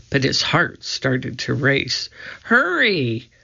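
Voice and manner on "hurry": high, urgent call at moderate volume. A narrator's reading. Annie to her brother in the woods, calling urgently. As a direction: call someone over, pitch raised. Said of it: "called Annie".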